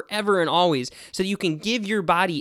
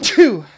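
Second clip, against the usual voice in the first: sneezing; 4 semitones higher, 10 dB louder than usual. Real, not acted. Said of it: "I'm gonna sneeze".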